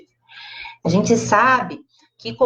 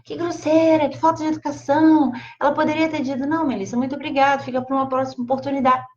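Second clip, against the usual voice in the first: higher, offended and indignant; offended indignation; 6 semitones higher, faster than usual. Retold or imitated. Offended hostess complaining about a curt refusal, indignant and high. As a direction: huff about the rude guest, voice raised high. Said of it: "O que que eu ia falar?".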